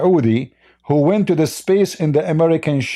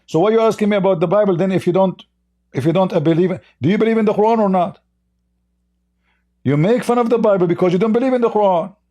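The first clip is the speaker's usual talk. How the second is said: higher, fast, jabbing questions; heated challenge; 5 semitones higher than usual. Real, not acted. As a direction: pin him down, rising anger. Heated debate, attacking caller's logic.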